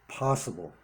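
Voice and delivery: possible set apart with a falling, weighted tone; stress on possible. Real, not acted. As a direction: lean hard on the word possible. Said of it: "emphasis on possible".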